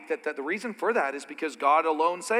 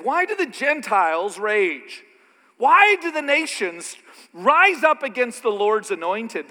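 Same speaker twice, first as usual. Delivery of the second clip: proclaiming David; 5 semitones higher, 7 dB louder than usual. Acted. Preacher quoting David's psalm to the church, loud and high. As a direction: declaim the psalm with force. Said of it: "Because David said".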